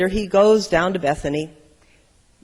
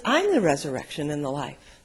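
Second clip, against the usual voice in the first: calm declaration; 5 semitones lower than usual. Acted. Jesus answers calmly.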